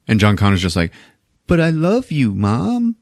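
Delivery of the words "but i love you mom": put-on high pleading kid voice; mock whiny kid. John answering his mom, high whiny plea. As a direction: whine it like a hurt boy.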